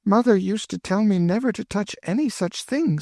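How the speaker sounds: put-on high, anxious girlish pleading; pleading young girl. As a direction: beg her to run away with you. Emmeline recalls mother.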